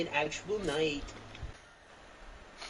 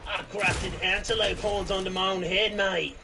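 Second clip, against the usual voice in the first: mock Australian accent. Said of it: "That's just Australian way".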